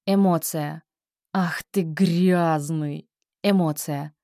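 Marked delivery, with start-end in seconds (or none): 1.3-3.1 disgust. Shown as a demonstration. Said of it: "второй раз с отвращением".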